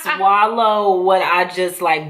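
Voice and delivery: laughing through a mouthful; mouth full. Real, not acted. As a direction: talk around a gross bite. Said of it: "I don't even wanna swallow".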